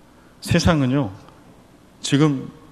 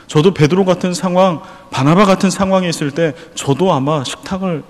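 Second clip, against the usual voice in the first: prayer; 2 semitones lower than usual. Acted. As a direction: pray it humbly before God. Pastor voices a model prayer. (간절하게 낮춰 드리는 기도)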